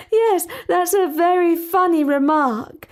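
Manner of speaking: a hint of a composed princess, amused; lightly voiced haughty princess; princess Talia.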